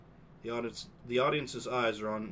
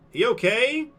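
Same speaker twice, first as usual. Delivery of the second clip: murmuring crowd; 11 semitones higher, 9 dB louder than usual. Acted.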